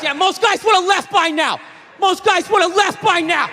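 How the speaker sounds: mock-yell it like a fed-up old-school dad; a hint of an angry working-class father; dad's catchphrase. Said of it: "That was one of his catchphrases".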